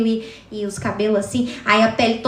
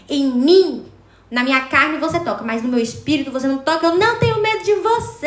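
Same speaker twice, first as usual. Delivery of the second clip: defiant faith; 3 semitones higher than usual. Retold or imitated. Confronting the zombie forehead to forehead.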